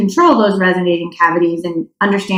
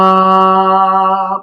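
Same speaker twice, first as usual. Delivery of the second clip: open throat. Shown as a demonstration. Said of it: "creates a different sound".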